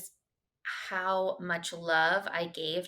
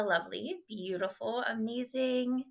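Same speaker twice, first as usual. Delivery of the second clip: gushing praise; 5 semitones higher than usual. Acted. Gushing host introduction.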